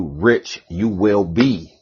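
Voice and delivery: slow, drawn-out ritual intoning. Retold or imitated. Ritual leaders telling you, slow intoning. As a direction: intone it slowly like a spell. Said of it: "then they tell you".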